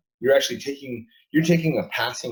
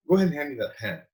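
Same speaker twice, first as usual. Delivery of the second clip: commanding; 5 semitones higher, faster than usual. Shown as a demonstration. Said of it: "You're not saying".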